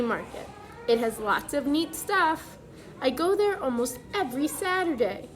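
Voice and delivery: clear, lively picture-book reading voice; reading to children. Acted. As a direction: read the letter aloud to the class.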